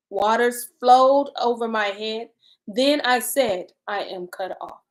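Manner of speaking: measured, deliberate Bible reading; solemnly paced reading; scripture reading. Acted. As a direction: read the lament aloud with pauses between phrases. Reads scripture aloud.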